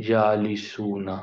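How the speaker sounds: جالسونا with the oona ending drawn out; slow teaching pronunciation; slow model word. Shown as a demonstration. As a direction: stretch جالسونا. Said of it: "اونا کی آواز".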